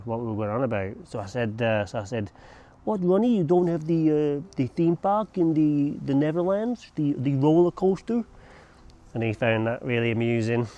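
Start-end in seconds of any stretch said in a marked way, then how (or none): 2.8-8.2 mock disbelief. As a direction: act astonished that he has no theme parks. Mock baffled question to Ronnie.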